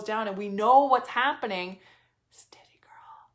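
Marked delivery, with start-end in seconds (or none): 2.3-3.3 soft unvoiced whisper. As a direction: murmur it to yourself like a secret mantra. Self-coaching mantra in a storm.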